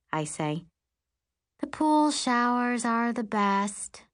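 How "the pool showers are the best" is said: wistful. Acted. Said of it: "Allison says wistfully".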